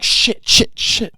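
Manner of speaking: sharp urgent whisper; panicked hiss to yourself; whispered curse. Retold or imitated.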